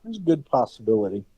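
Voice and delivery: muffled through a face mask. Real, not acted. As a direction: speak muffled behind a mask. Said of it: "If I sound a little muffled, I've got a mask on".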